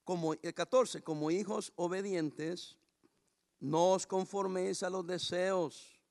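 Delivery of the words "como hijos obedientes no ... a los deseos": scripture read slowly, word by word. Shown as a demonstration. Pastor reading the verse slowly to the congregation. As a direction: read it slowly so it won't hurt. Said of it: "Se lo voy a leer despacito".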